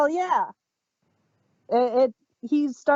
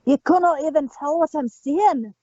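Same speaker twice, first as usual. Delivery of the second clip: mock Scottish accent, lightly done; broad scottish accent. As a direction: ham up a thick Scottish brogue. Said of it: "speak with a thick Scottish accent".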